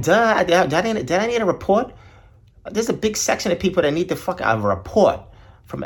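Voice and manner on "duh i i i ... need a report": sarcastic incredulity. Retold or imitated. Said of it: "I'm like".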